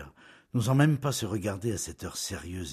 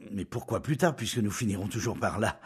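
a touch of impatience in the pleading; plead, but cut it short; pleading but brusque; 3 semitones higher, 3 dB louder than usual. Acted. Julien pressing his bride, pleading yet brusque. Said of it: "d'un ton toujours suppliant, mais plus brusque".

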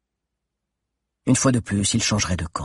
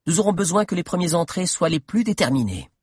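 voix de Mordelia; 8 semitones higher than usual. Acted. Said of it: "continua-t-elle".

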